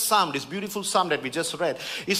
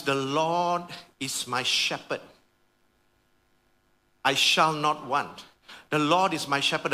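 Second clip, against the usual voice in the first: psalm recitation; 4 semitones lower than usual. Acted. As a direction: read it gently, savouring each line. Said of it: "David writes".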